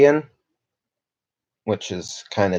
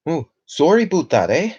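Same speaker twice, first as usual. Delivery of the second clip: mock Canadian accent; 7 semitones higher than usual. Streamer to viewers, mocking the Canadian stereotype in a Canadian accent. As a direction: poke fun at the polite Canadian stereotype. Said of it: "And the accent".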